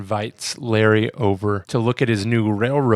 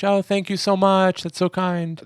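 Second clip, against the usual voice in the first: mock yell thanks; 8 semitones higher than usual. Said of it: "yells back to the coach".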